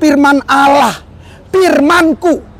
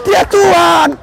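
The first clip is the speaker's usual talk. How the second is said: preaching shout; 5 semitones higher, slower than usual. Real, not acted. Preacher proclaims to congregation.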